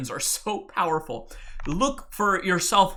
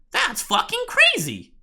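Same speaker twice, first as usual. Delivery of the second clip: high, slow incredulous squeal; drawn-out squeal of mock disbelief. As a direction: play the stunned doubter. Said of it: "the world will look at it and say".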